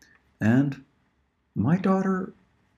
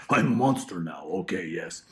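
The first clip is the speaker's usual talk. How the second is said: a lightly voiced monster, barely changed; just a hint of a monster; 4 semitones lower than usual. Auditioning mom tries a light monster voice. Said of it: "I'm gonna try to be some monster".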